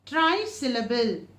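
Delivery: ordinary talk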